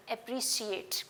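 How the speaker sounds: "अप्रिशिएट" with a clear sh in the middle; "अप्रिशिएट" said slowly with sh before "ऐट"; careful demo. Shown as a demonstration. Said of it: "मैं क्या बोल रही हूँ".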